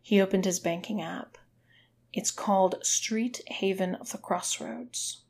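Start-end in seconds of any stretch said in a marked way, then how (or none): 2.1-5.2 through clenched teeth. Acted. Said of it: "through her clenched teeth".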